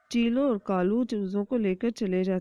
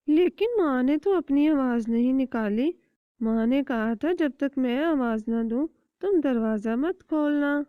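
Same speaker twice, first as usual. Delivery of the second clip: much higher, eager little chick; small child chick voice; 5 semitones higher, 4 dB louder than usual. Acted. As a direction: ask mother with childish curiosity. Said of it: "تبھی چھوٹا بچہ بولتا ہے".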